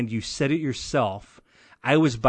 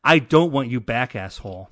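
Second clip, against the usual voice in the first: louder, reading out capitals; all caps emphasis; 3 dB louder than usual. Shown as a demonstration. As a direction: read it like a message shouted in caps. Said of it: "Extended all caps".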